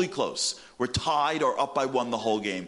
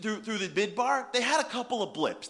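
ordinary talk, nothing marked

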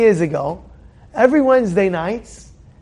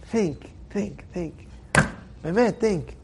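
much softer, almost breathed think; hushed urging; 3 semitones lower, 12 dB quieter, slower than usual. Real, not acted. Preacher quietly pressing the listeners to think. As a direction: let it fade to a hush. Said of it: "fading exhortation".

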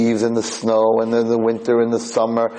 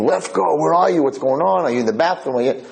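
raised-pitch retold yell, easing off; mock screaming; 5 semitones higher than usual. Blind Friedman calling for his missing roommate, mock screaming. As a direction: call out in a mild mock panic. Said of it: "he starts screaming".

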